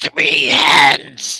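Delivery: rasping, hoarse, goblin-like creature voice. A game master voices a goblin speaking to the players: raspy goblin voice. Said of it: "in like a raspy voice".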